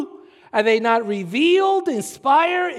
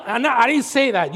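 normal talking voice

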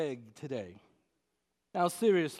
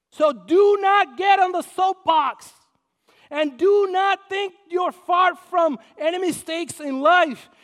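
loud, high, slowed exhortation; preaching at full force; 10 semitones higher, 11 dB louder than usual. Acted. Pastor warning the congregation off the soapbox, preaching hard. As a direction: thunder the warning at the pews.

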